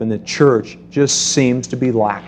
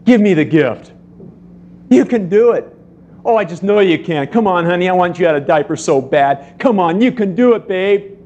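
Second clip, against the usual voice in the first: coaxing parent; 4 semitones higher than usual. Retold or imitated. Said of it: "and you go".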